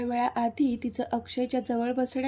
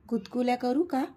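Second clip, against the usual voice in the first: playful teasing. Acted. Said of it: "तो मिश्किलपणे हसून बोलला".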